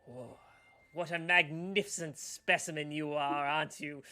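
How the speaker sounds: loud gushing admiration of a specimen; fawning gnome. Acted. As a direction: coo over him like a collector. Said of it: "and he's like".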